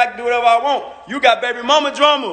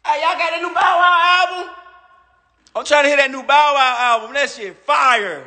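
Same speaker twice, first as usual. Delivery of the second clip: mock hype fan; 3 semitones higher than usual. Rapper sarcastically voicing fans who want another rapper's album, mock hype shout. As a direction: ham up a fan begging for the song. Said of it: "when the last time a nigga said".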